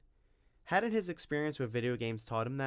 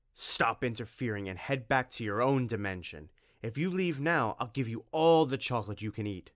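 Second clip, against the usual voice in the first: louder, looming vampire offer; menacing vampire; 5 dB louder than usual. Acted. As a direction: threaten then tempt. Dracula threatening and bribing Tim.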